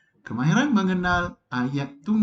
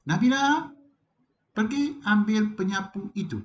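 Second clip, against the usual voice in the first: put-on high, firm call to a child; mother's command; 6 semitones higher than usual. Mother ordering Nabila to fetch the broom, firm. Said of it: "ibu memberikan perintah".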